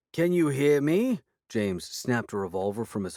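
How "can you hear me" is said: calling out. A narrator's reading. Lord Dingley calling through door.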